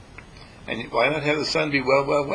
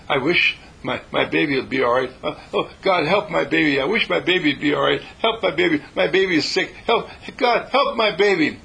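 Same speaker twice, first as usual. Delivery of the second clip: rising, pleading cry for help; desperate pleading prayer; panicky prayer; 4 semitones higher, 4 dB louder than usual. Retold or imitated. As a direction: beg God in a growing panic, louder and higher. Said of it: "that's not a very good prayer".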